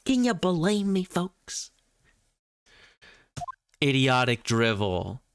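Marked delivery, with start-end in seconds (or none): 3.8-5.2 put-on lightly done German accent; a hint of a German prosecutor. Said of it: "her shitty German accent".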